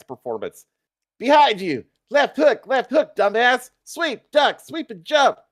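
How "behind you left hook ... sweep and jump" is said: high, loud coaching yells; a girl coaching Peter mid-fight, high and loud; girl shouting. A narrator's reading. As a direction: bark instructions from the crowd. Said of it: "The girl shouts from the crowd".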